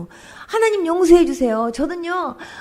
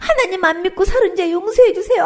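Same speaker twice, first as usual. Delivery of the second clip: retold crying plea; 3 semitones higher than usual. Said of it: "앙앙 울면서".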